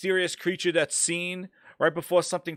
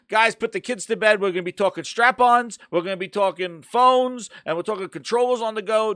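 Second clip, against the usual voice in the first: loud, hyped show intro; 5 semitones higher, 5 dB louder than usual. Real, not acted. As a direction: pump up the audience, loud and high.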